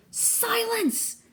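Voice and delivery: high, drawn-out snarled command. A narrator's reading. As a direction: snarl it to cut them off. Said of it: "Medusa snarled".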